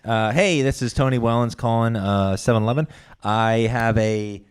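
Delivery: flustered, swearing at slips; nervous stumbling. Real, not acted. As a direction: trip over the words, nervous. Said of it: "Sorry, I'm nervous".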